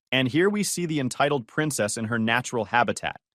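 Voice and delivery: lightly voiced nature documentary narrator; David Attenborough voice. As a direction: narrate like a hushed wildlife documentary. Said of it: "he'd say in a David Attenborough voice".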